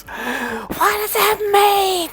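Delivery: very high, drawn-out imitated wife; mock exasperated screech. Wife demands husband explain himself, mock exasperated screech. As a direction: stretch it into a high-pitched wail of demand.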